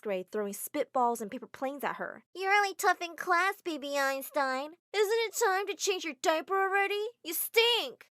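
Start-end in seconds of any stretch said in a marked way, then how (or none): 2.3-8.1 high, sneering schoolgirl taunt; lightly voiced mean girl jeering; mocking bully girl. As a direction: tease her like a mean sixth grader. Bullies taunting in washroom.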